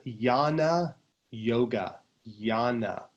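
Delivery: "Jnana" said as YAH-nah, silent J; yan sound. Shown as a demonstration. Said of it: "you get the yan sound".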